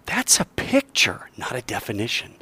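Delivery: a teacher's slow model line; slow, deliberate. Shown as a demonstration. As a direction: stress on That's, then drop. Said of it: "and say".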